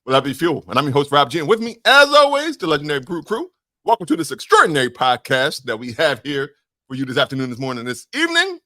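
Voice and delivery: punchy podcast host voice, pitch jumping up on the crew intro; hammed-up host intro. Shown as a demonstration. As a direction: sell it like a hype radio host. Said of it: "Start the whole opening. Do it".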